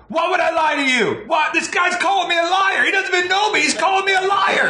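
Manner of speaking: very high-pitched indignant yell; outraged mock shouting. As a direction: act out an offended tough guy's outburst. Acts gang leader's outraged reply.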